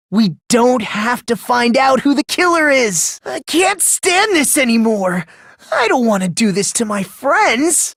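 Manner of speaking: high, pleading cry to stop; desperate pleading. Acted. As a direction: beg your friends to stop this. Begging others to stop suspecting.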